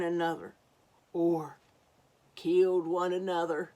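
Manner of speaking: dramatic narration. A narrator's reading. Dramatic reading of conflict.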